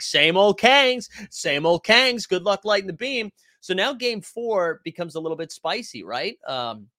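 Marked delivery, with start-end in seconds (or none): 0.0-3.3 slow, loud, jeering chant of the team name; mocking taunt. Rival fans taunting the home team, in a slow jeering chant. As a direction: rub it in like a smug rival fan. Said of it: "And they're like".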